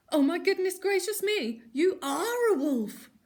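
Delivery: put-on loud, high alarmed old lady; gasping shock. A narrator's reading. Granny realising it's a wolf, loud high gasp. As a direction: gasp it out in horror. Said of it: "she gasped".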